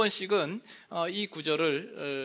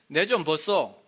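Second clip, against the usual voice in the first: Gyeongsang dialect, a bit louder; 6 dB louder than usual. Shown as a demonstration. Pastor demonstrating Gyeongsang dialect, Gyeongsang speech. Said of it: "경상도로는".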